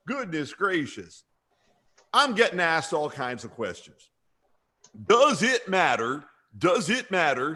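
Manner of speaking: mildly exasperated mock coach; Freddie Kitchens. Coach fielding reporters' questions, mildly insistent parody. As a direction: repeat the question for emphasis. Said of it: "See, I'm emphasizing again".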